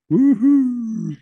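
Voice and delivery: high, loud cheer of triumph; gleeful holler; excited whoop. Retold or imitated. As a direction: whoop it up like you just landed. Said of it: "they all start going".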